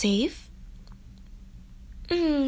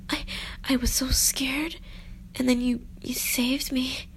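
whispering; 6 dB quieter than usual. Pretend. Frightened damsel confides softly.

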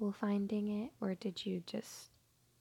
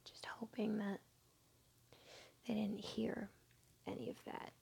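whispering; 6 dB quieter than usual. Acted. Worried someone overheard.

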